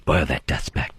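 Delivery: very low, put-on cartoon voice; mock cartoon narrator. Host quoting a cartoon in a deep mock voice. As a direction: drop into a deep storybook voice for the Horton line. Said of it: "the dust speck is their big thing".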